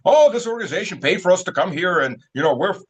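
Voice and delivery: airy mocking voice; mock protester. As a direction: parody their earnest reasons.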